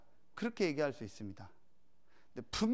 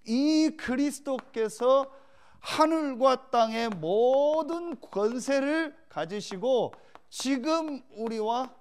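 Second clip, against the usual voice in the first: raised, louder pulpit delivery with stretched key words; forceful preaching; 7 semitones higher, 5 dB louder than usual. Real, not acted. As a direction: proclaim it to the congregation. (힘주어 선포하는 설교)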